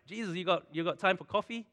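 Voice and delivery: high, pushy invitation; eager plea. Retold or imitated. Crowd begging Jesus for his time, high and eager. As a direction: pester Jesus for coffee, excitedly. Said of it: "everyone wants time with Jesus".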